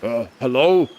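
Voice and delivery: toned-down rasp, muscular character; second try, lighter rasp. Shown as a demonstration. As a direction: ease off the rasp a little. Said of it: "Maybe not that raspy".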